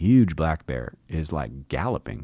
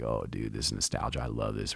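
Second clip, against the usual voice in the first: hushed nostalgia; 6 semitones lower, 7 dB quieter than usual. Retold or imitated. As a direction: lower and softer, fond awe. Nostalgic moment at the lodge.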